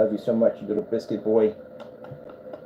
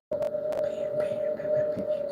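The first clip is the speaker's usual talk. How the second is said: whisper; 7 dB quieter, much slower than usual. Real, not acted. Whispering to cat.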